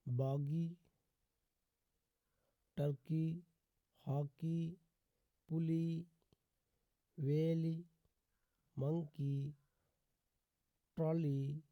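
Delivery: word-by-word demo, each ending on a held "ee"; teacher's list, long ई closing ट्रॉली and the rest; long final ee. Shown as a demonstration. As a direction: say बॉगी, टर्की, हॉकी as separate examples, final ई long. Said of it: "बड़ी ई से करते हैं".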